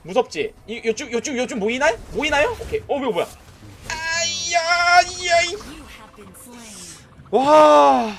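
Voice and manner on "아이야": long slow high dismayed groan; drawn-out groan. Real, not acted. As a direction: stretch out the dismay. (길게 늘어지는 탄식)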